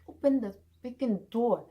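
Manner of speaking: exasperated, emphatic reenacted yell; cursing in anger. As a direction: act out ordering the door open, fed up. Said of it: "I was cursing".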